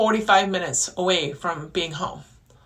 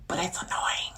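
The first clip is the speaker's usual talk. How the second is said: breathy whispered aside, much softer; annoyed whisper; 2 semitones lower, 7 dB quieter than usual. Real, not acted. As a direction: let the annoyance slip out under your breath. Venting quietly about small annoyance.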